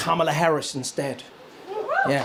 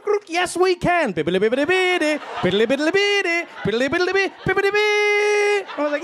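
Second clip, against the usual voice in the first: mock video game sounds; 10 semitones higher than usual. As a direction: play a retro game level with your mouth. Video game noises for Obama.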